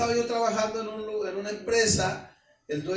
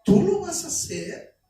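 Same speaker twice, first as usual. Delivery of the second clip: mocking doubt; 4 semitones higher, 4 dB louder than usual. Pessimists mock the dreamer.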